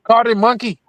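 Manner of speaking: mock call. Mock shout about a monkey.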